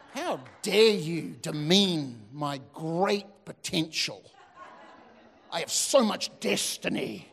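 hammed-up wounded pride, slow and lofty; mock insulted. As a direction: play the offended young hotshot with a laugh. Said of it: "And you are just insulted".

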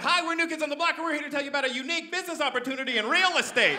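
high, brisk, over-eager sales pitch; pitchman ex-boy band. Acted. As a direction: pitch it like a real-estate seminar host. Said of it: "they came out, like".

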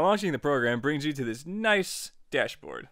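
ordinary delivery

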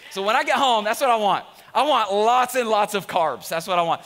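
loud, high-pitched preacher's rant; mock-indignant rant. Real, not acted. Preacher to congregation defending bread, mock-indignant rant. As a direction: belt it out in comic outrage.

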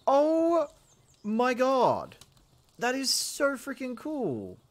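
high, loud, delighted gushing; excited squeal. Real, not acted. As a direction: gasp with pure delight. Amazed at pals storing items.

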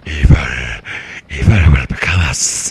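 deep gravel creature growl; Gollum voice. Retold or imitated. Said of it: "Like Gollum".

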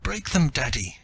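high pleading little voice; imploring child. Acted. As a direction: beg daddy in a small child's voice. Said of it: "she implored in a little thread of a voice".

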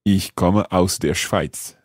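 slow, measured German practice sentence; unhurried learner's repetition; careful repetition. Shown as a demonstration. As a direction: repeat it slowly and carefully for a lesson. Learner repeats sentence after the teacher.

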